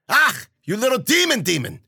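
high exclamation at a misbehaving cat; yelp, then scold the cat, pitched high; pained scolding cry. A narrator's reading. Widow bitten by her cat.

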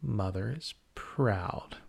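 slow, hushed menace; creepy slow killer. Acted. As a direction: drag it out like a slasher. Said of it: "work on my voices".

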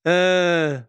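a slack, half-asleep groan; mild imitation of a sleepy murmur; mock sleep-talk moan. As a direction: imitate a sleeping mouth still working. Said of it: "so she's sitting going".

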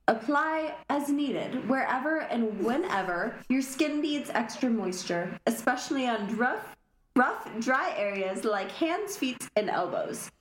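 smooth product ad read; commercial voice. Pretend. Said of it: "I love your commercial voice".

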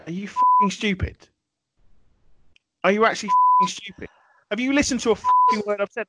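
exasperated rant at his co-host, shouting; furious shout. Acted. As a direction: blow up at him in mock rage.

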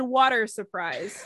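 "water" said slowly with a clear R; amused, slow "water surprise"; misheard with an R. Retold or imitated. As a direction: imitate the mishearing, sounding the R in "water". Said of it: "not having R's".

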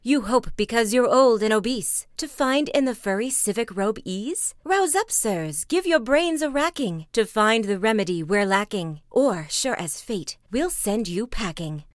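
loud, indignant townsfolk berating the mayor; a crowd shouting its complaint; angry crowd. Acted. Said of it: "cried they".

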